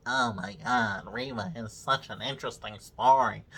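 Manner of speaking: mock wonder, low and unimpressed; sarcastic mock awe. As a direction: fake gushing, dripping with sarcasm. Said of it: "I'm supposed to care again".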